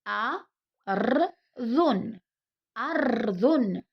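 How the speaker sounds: أرض said slowly, final ض clear; slow model word. Shown as a demonstration. Teacher models أرض slowly for pupils. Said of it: "وهنا".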